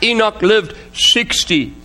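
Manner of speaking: slow, measured Bible reading; solemn pulpit reading with spaced-out phrases; scripture reading. Real, not acted. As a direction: read the verse out slowly and deliberately. Reads scripture to congregation.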